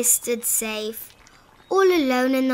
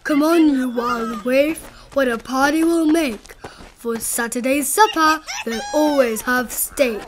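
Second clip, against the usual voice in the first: Nupper calling. Acted. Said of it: "the Nupper called out".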